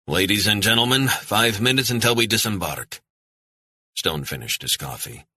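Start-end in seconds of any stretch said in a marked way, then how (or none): 0.1-3.0 booming announcement. Acted. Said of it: "A man's voice boomed out of the speakers".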